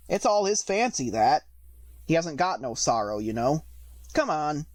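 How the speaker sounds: gruff creature with dialect; a common, gruff beast talking; rough griffin voice. Acted. Griffin repeats same words.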